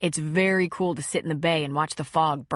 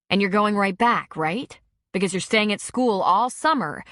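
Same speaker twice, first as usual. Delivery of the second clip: angry; 3 dB louder than usual. Acted. Pressing him angrily.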